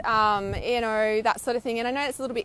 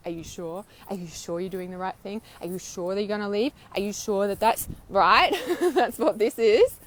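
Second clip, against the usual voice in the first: doubting inner voice. Retold or imitated. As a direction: needle them like a voice in the head. Voicing doubting demons.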